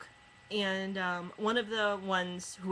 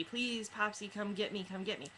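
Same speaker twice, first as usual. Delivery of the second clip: mock wailing child; 5 dB quieter than usual. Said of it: "this kid's wailing for his popsy".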